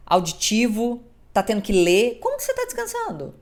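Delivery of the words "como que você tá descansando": high, fast teasing question; mocking skeptic. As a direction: needle them, high and quick. Imita interlocutora cética, voz aguda. (pergunta aguda e debochada)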